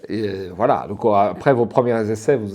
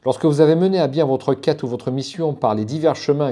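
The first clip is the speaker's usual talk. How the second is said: slightly raised, careful reading voice; reading aloud; 3 semitones higher than usual. Real, not acted. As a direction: read the book's text out to viewers. (lecture à voix haute)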